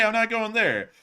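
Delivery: high-pitched but not shouted; milder mock protest. Telling what people will try to say, milder high protest. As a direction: insist it in a high voice. Calmer repeat of the outcry.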